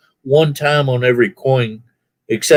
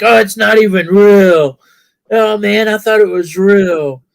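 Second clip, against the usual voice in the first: put-on surprised kids; 8 semitones higher than usual. Kids fooled by fake crow.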